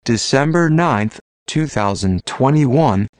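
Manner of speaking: robotic text-to-speech voice. Real, not acted. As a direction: read it like a computer voice. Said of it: "using a computer-generated voice".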